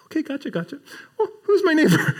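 high, quick dodging okay gotcha; eager, slippery questioner; mock eager lawyer. Lawyer voiced dodging the point.

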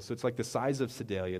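normal talking voice

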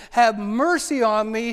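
slow, loud plea for mercy; desperate woman crying out to be heard. Acted. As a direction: call out to Jesus over the crowd. Woman cries out to Jesus.

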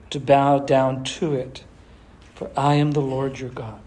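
measured, solemn Bible reading; scripture reading. Acted. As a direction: read the verse out to the congregation. Reads scripture aloud.

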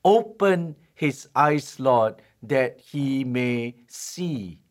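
slow, drawn-out prayerful plea; slow earnest prayer. Retold or imitated. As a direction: pray it word by word, earnestly. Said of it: "this is what the prophet prayed".

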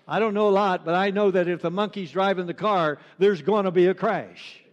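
lightly acted monkey witness, emphatic; monkey's punchline. Monkey answering the police officer, mildly emphatic. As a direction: deliver the punchline with a firm push. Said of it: "And the monkey goes".

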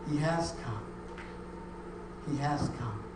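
usual speaking voice

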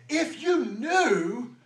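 Jesus calling out who he is; bold declaration. Acted. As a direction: proclaim it with full authority. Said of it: "doesn't have an ounce of pride or arrogance".

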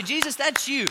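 preacher leading shouted worship; loud praise. Acted. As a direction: lead the church in jubilant praise. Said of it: "celebrate with me and say".

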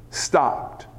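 low, soft, breath-held word; hushed. Shown as a demonstration. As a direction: drop low and soft for awe. Dramatic hush on key word.

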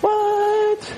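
high, stretched "What?"; mock disbelief; incredulous what. Real, not acted. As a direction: act floored by the idea. Reacting to baby name experts.

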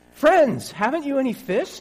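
high, loud hail across the water; calling out loudly. Acted. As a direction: shout out to the fishermen from the beach. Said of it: "Jesus called out".

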